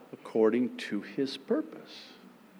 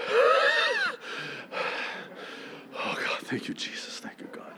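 relieved whisper; 4 dB quieter than usual. Acted. Relief when wheel stops.

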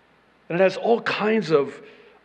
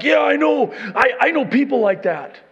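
loud, high mock indignation; eager agreement; 10 semitones higher, 9 dB louder than usual. Reader recognizing other people as wicked, loud eager agreement. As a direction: jump in loudly, sure it's others. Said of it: "you're like".

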